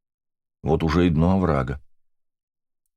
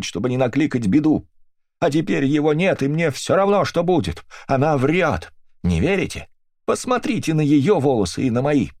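high, raised voice of a distraught widow; high, grief-stricken accuser, near tears; grieving accusing widow; 5 semitones higher than usual. Acted. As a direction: press the accusation, rising to a wail. Mrs Brixter's long accusing speech.

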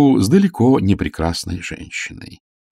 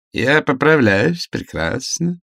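slow, stiff and formal; patient answering visitors with cold formality; same official tone; 5 semitones higher, slower than usual. A narrator's reading. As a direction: report your health like an official statement. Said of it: "всё тем же поразившим меня тоном".

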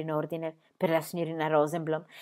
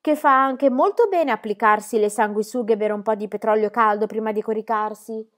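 put-on cheeky girl voice; 5 dB louder than usual. Pippi dictates advice.

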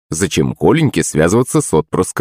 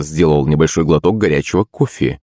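ordinary delivery, nothing marked

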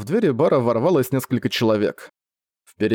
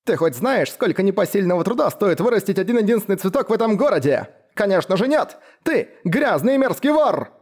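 high, outraged crone voice rising further; shrieking old woman; 8 semitones higher than usual. A narrator's reading. Old woman berating the flower thief, shrieking high. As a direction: scold him as a furious old woman. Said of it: "кричала старуха ещё на тон выше".

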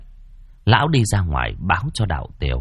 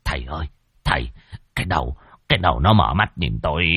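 stammering in terror; 3 semitones lower, faster than usual. Acted. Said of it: "kinh hãi chỉ vào cái đầu mà lắp bắp".

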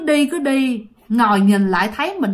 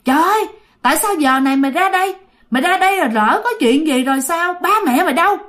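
put-on higher, fast scolding of a lost boy; scolding yell; 4 semitones higher, faster than usual. Stranger scolds the boy by the river, sharp and fast. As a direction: scold him sharply while wiping his face. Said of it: "vừa la, vừa chửi".

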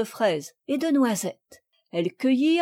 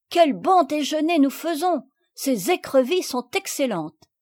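higher, happy exclamation; delighted girl; 5 semitones higher, 3 dB louder than usual. Acted. Marguerite delights in the picnic lunch, higher and happy. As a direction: relish the meal aloud.

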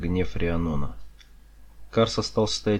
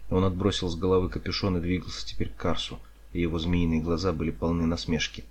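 ordinary delivery

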